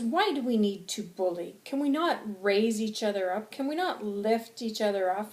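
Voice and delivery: impassioned rhetorical pleading; angry, passionate. Acted. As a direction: challenge the crowd with indignation. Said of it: "I'm very angry and I'm very passionate".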